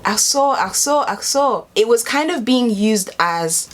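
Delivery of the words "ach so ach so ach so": raised mock ach so; light, higher repeated ach so; lightly voiced German speaker saying ach so; imitating. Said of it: "they were like".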